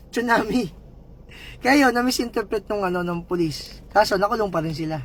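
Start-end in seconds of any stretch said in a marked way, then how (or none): 0.1-0.7 misheard call. Retold or imitated. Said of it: "pagkakarinig ng tao".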